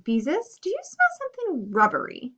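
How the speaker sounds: a touch of worry, voice lifted high; anxious. A narrator's reading. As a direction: ask it with mild alarm. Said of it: "she asked anxiously".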